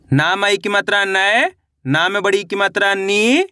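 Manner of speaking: slow chant, last syllable stretched and rising; drawn-out, lilting matra drill; spelling drill recitation. Shown as a demonstration. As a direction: spell it out for pupils to repeat.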